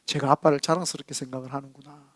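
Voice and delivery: soft, low sigh of pride; quietly moved, musing to oneself; touched pride. Acted. Father hearing his son boast of him, touched pride. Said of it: "제 마음이 얼마나 이렇게 뿌-, 뿌듯하겠어요".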